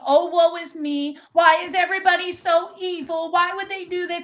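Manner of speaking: mocking a self-pitying complainer; mock whining. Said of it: "whining, crying, complaining".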